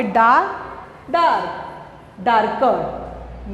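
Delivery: डार्क, डार्कर drawn out slowly, R softened away; silent R. Shown as a demonstration. Teacher showing R is not pronounced, डार्क said slowly with silent R. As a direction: stretch the vowel in डार्क, letting the R go silent. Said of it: "आर का उच्चारण नहीं हुआ".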